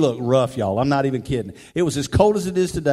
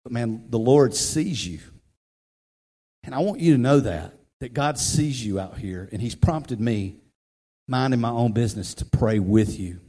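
gentle reassurance; 4 semitones lower than usual. Retold or imitated. Preacher reassuring a homeless man.

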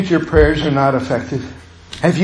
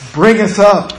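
fervent prayer; 4 semitones higher, 3 dB louder than usual. Retold or imitated. Pleading prayer rising in force.

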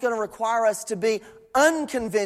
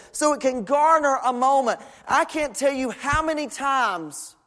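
earnest preaching; 4 semitones higher than usual. Acted. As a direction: preach it in rolling, insistent phrases. Preaches at full flow.

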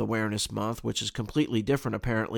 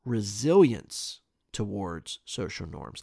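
slower, softer repeat of "Resilience towards social norms"; puzzled; 3 semitones lower, 4 dB quieter, slower than usual. Real, not acted. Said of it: "slow puzzled repeat".

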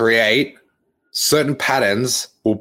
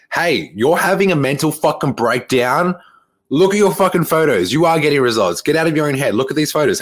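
raised, higher voice, loud tough-love telling-off; exasperated coach rant; 5 semitones higher, 3 dB louder than usual. Acted. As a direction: give a student an exasperated pep talk. Acts out scolding his students.

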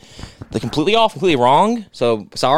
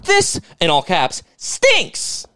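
much higher, slow whiny mockery of the comment; mocking whiny commenter; 9 semitones higher, slower than usual. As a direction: squeak it out like a whining troll. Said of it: "He wrote".

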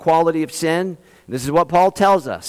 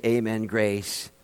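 softer, slower "amen, grace" trailing off; mock amen sinking to a murmur; fading echo; 8 semitones lower, 9 dB quieter, slower than usual. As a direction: let "amen, grace" die away as an empty echo. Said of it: "you're like".

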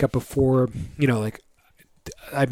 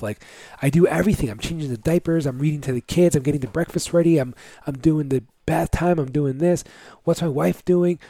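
resentful rant; 3 semitones higher than usual. Retold or imitated. Father acting out his resentful rant.

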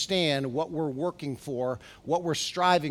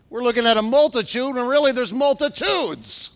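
higher, louder, pressing the point; excited emphasis; 6 semitones higher, 7 dB louder than usual. Real, not acted. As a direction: lift it with wonder. Excited point about multitudes.

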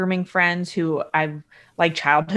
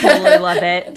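laughing; 5 dB louder, faster than usual. Real, not acted. Repeats the line laughing.

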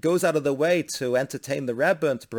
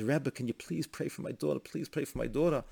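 pleading; 6 dB quieter than usual. Retold or imitated. Father begs the Rebbe.

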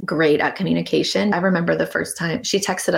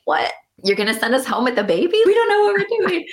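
mock panic; 10 semitones higher than usual. New parents told to take the baby home, hammed-up panic.

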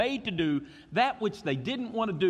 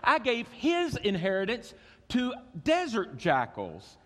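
voice of God; 6 semitones higher than usual. Acted. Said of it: "He says".

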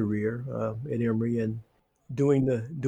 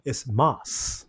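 lightly imitated Greek accent. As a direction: say it with a hint of Greek. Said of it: "in this nice Greek voice".

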